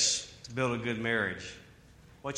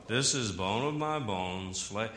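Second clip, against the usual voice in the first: lower, easygoing motel ad read; Tom Bodett commercial; 6 semitones lower, 4 dB quieter than usual. Retold or imitated. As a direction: read it like a sleepy radio commercial. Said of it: "like Tom Bodett doing a Motel six commercial".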